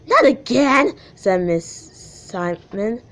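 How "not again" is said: teacher voice. Acted. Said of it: "I'm gonna do the impressions".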